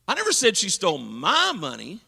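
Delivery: stole swung up and down; stress on stole. Shown as a demonstration. Preacher demos inflection, stressing stole. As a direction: hit the word stole. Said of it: "which word I put the voice inflection on".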